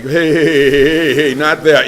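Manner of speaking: loud, quick stop-that calls; mock-panicked parent halting a child; alarmed call-out. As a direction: yell to stop the kid in time. Stopping child crumbling matzah.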